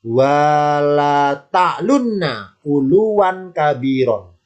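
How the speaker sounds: slow, drawn-out Quranic reading; verse recitation. Shown as a demonstration. Teacher reads the example verse aloud, slow recitation. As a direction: recite with long held syllables. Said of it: "Saya baca ya".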